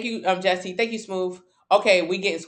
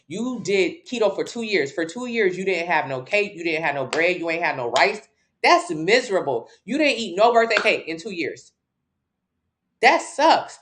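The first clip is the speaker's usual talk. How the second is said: mock pity. Real, not acted. Mocking a commenter's keto.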